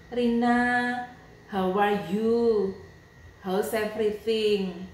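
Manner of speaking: slow, sung-out sweet greeting; singsong greeting. Retold or imitated. Reading out Candy's sugary text message in a slow singsong. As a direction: croon her name, slowly and sweetly. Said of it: "si Candy ini S M S aku".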